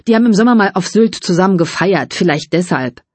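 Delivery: lightly played offhand shrug; studied indifference. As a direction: pretend it doesn't matter to you. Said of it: "gab sich betont gleichgültig". (betont gleichgültig, nur leicht gespielt)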